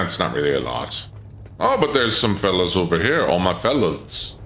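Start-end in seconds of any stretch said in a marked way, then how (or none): 3.2-4.3 slow words through a yawn. Real, not acted. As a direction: say it mid-yawn. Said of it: "Excuse me, yawning into the pit".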